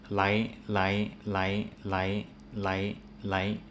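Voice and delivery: lai said for every word, R and L sounding the same; imitating a friend who says lai for both rice and lice; friend's blurred R and L. Imitating the friend who read the list, every word as lai. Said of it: "and he read it".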